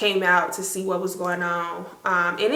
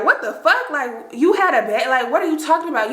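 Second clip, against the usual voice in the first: higher-pitched baffled questioning; confused disbelief; 5 semitones higher than usual. Retold or imitated. Teachers hearing about a baby in the toilet, confused disbelief. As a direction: imitate baffled teachers demanding an explanation. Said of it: "very, like, confused".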